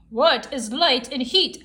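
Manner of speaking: slow, curious Fox voice; a puzzled fox wondering aloud; Fox asking. Acted. Fox asks Raven about fire, slow and curious. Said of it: "asked Fox".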